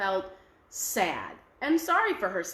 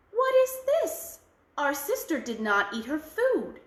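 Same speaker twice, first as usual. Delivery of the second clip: sister voice; 3 semitones higher than usual. Acted. One Eye scolds about food.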